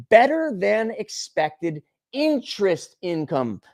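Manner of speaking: slow, sneering repeat of the headline; sarcastic repeat. Shown as a demonstration. Mocking the headline back to the viewers, slow and sarcastic. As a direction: drag it out with contempt. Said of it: "You don't freaking say".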